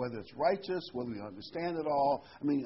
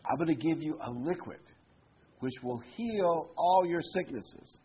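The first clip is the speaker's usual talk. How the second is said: genie listing gifts; 4 semitones higher than usual. Retold or imitated. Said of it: "he says".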